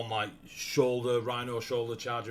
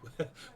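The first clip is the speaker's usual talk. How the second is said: nonchalant little whistle; carefree whistled noise; casual whistling; 6 semitones higher, 6 dB quieter than usual. Acted. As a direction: whistle away as if nothing is happening. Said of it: "whistling away".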